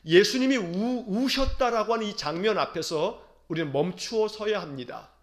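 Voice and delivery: normal talking voice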